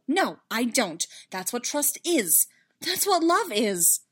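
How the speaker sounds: slow, emphatic, rising in force; fervent, deliberate declaration; firm insistence. Acted. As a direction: answer firmly, building to the end. Padme answering firmly in quarrel.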